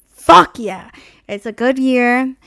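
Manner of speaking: loud, punchy celebration; excited cheer. Retold or imitated. Celebrating the car's good year, loud. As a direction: celebrate the find. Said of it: "So I was like".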